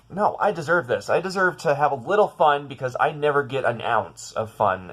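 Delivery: indignant, insistent retold self-talk; insistent self-pleading. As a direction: argue that you have earned it. Retold defiant argument with self.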